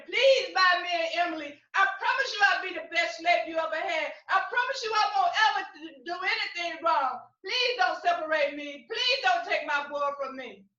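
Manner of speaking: loud, begging plea of a mother; desperate pleading. Acted. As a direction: beg him not to split the family. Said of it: "kept on begging and pleading".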